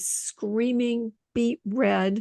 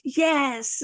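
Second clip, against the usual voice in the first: higher, put-on meek yes; sudden meek yes; 6 semitones higher than usual. Angry colleague suddenly calms and answers. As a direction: play the calmed colleague answering.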